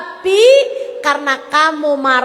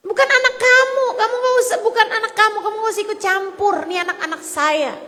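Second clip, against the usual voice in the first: higher, mock-offended protest; a hint of an indignant mother; 5 semitones higher, 3 dB quieter, much faster than usual. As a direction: play the mother telling a stranger to back off, fading. Mother defending her children.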